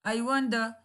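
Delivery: very polite request. Shown as a demonstration. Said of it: "but it's very polite".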